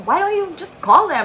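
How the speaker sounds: high, quick nagging; pestering. Retold or imitated. Younger traveller making her sister kulit about calling, pestering. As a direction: badger fast with a swooping high pitch. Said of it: "I was making her kulit".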